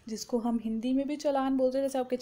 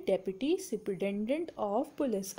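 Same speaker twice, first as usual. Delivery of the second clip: slow dictation; 4 semitones lower, 3 dB quieter, much slower than usual. Shown as a demonstration. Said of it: "DSP की full form क्या होती है?".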